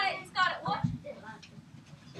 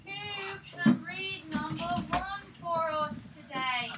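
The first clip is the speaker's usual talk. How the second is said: put-on teacher's playful British accent; attempted British accent. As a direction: have a go at sounding British. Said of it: "mine doesn't really come up sounding British".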